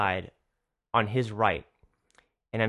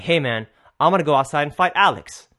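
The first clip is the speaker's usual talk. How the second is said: retold fighting announcement; 5 dB louder than usual. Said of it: "taking off my apron and I'm like".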